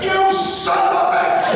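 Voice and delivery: high, laughing imitation of a furious friend; laughing mock curse. DeForest catching the bagel thief, mock furious through laughs. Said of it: "and he says".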